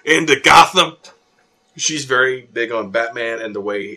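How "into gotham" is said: loud, high, drawn-out heckle; outraged yell. Retold or imitated. Ralphie heckling the film in the theater, outraged yell. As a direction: bellow it slowly at the movie screen. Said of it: "Ralphie leans forward in her seat and yells".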